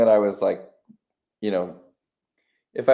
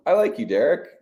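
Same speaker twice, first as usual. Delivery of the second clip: mock self-affirmation; 9 semitones higher than usual. Acting out friendly self-talk.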